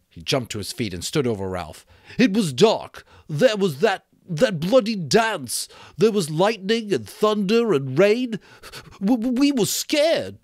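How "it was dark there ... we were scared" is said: put-on high, loud, stammering boy; frantic scared Piggy. Piggy frantically justifying the dark night. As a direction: rush it out in panic.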